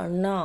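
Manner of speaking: retroflex N in "అన్నా", long final vowel; corrected pronunciation. Shown as a demonstration. Teacher correcting a common misreading, firm N in "అన్నా". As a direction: lean on the N of "అన్నా". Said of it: "అలా చదవద్దు".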